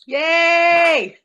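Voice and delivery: loud, high drawn-out cheer; mock cheering. Co-host cheering that the villain is dead, playful whoop. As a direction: celebrate the villain's downfall with gusto.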